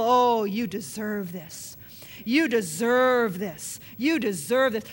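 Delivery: slow, mocking whisper of accusation; devil's taunt. Preacher voicing the devil's lie, slow and taunting. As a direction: drawl the lie slowly like the devil. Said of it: "You hear the lies of the devil".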